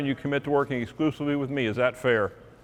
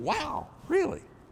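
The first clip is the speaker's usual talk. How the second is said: mock, weird, very high, inquisitive, quizzical lilt; 13 semitones higher, 6 dB quieter than usual. Retelling a conversation, imitating a weird inquisitive inflection. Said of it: "With that kind of weird, inquisitive voice inflection".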